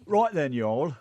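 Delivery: jokey British-Southern mash-up accent; laughing go at British Tennessee. Shown as a demonstration. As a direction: blend British with a Tennessee twang. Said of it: "Do a British Tennessee accent".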